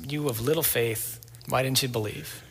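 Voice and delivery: soft reproach. Retold or imitated. Jesus gently chides sinking Peter.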